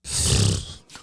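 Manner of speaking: unvoiced rush of breath, imitated; hissy mimicked choke sound; imitated choking noise. Imitates noise heard from choked partner.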